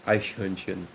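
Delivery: EICHHÖRNCHEN with soft German CH; German pronunciation demo of EICHHÖRNCHEN; German CH sound. Shown as a demonstration. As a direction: show both CH sounds in EICHHÖRNCHEN. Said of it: "that's a good example".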